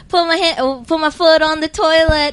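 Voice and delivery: lightly voiced, half-sung rapper lines; imitating a rapper. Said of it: "where he goes".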